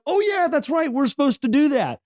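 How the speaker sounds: like it just clicked; mock dawning realization. The other attendee remembering the selfie rule, high sing-song realization. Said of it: "they're like".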